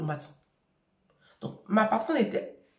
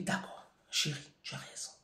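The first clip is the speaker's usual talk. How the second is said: whispered; 7 semitones lower, 14 dB quieter than usual. Retold or imitated. Mother giving in to her daughter, whispered. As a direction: concede it in a breath. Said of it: "je dis".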